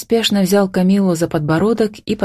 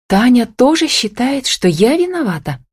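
higher-pitched, mildly anxious question; tense; 8 semitones higher than usual. A narrator's reading. Camilla asking whether Tanya blames her, mildly tense. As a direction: ask with a touch of strain. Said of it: "осведомилась напряжённо".

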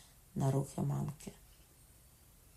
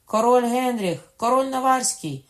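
guards shouting; 8 semitones higher, 11 dB louder than usual. A narrator's reading. Guards answer the queen mother, shouting. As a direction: yell the name as an alarm. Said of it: "кричали вартові".

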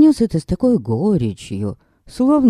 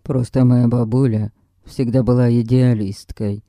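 grumbling; 5 semitones lower than usual. Acted. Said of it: "пробурчал Гилберт".

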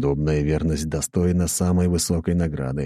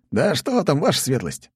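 embarrassed; 9 semitones higher than usual. A narrator's reading. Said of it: "смущённо отмахнулся Полос".

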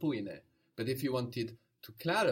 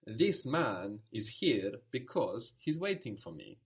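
slow, careful model sentence; slower than usual. Shown as a demonstration. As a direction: say it slowly for the learner to copy. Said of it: "So you could say".

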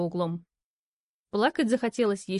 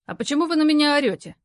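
mild indignation; 6 semitones higher, 4 dB louder, faster than usual. A narrator's reading. Stranger protests.

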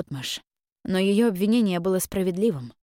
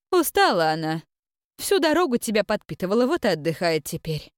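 gentle mentor voice; 6 semitones higher, 4 dB louder than usual. Acted. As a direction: comfort her like a wise mentor. Mentor's voice speaks in mind.

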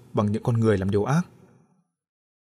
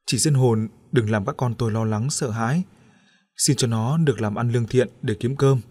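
earnest prayer to a spirit. A narrator's reading. Mother praying to the ghost, in a pleading murmur. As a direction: beg the ghost respectfully, like a prayer. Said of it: "chuyển sang khấn với vong hồn".

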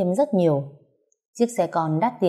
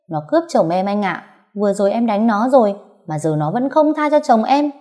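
whiny complaint; 4 semitones higher, 4 dB louder than usual. Acted. Wife complains to stranger.

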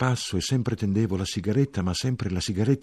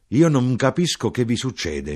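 exasperated mother; 6 semitones higher, 7 dB louder than usual. Acted. Mother keeps complaining.

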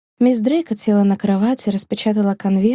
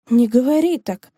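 snapping at her friend; 3 semitones higher than usual. Acted. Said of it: "набросилась на подругу мисс Дрейкот".

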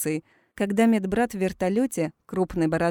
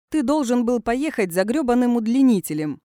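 громкая подначка сквозь шум; выкрикнуть с руганью, выше и громче; громко, с досадой; 5 semitones higher, 5 dB louder than usual. A narrator's reading. Броуди ругается на шефа. (громкий грубоватый упрёк)

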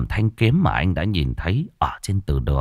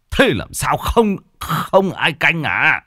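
shocked question; 8 semitones higher, slower than usual. Acted. Old man asks in shock.

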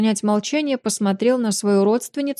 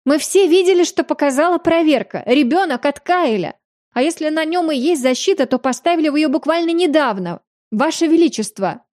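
breathless shouting; 7 semitones higher than usual. A narrator's reading. The mother shouts her accusation to the king, breathless. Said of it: "задыхаясь от эмоций, кричала женщина".

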